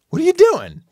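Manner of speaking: high, polite puzzled question; bright curiosity masking a bit of fear; curious with hidden fear. Retold or imitated. Neighbor asks politely, curious but a little uneasy. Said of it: "to be realistic about it".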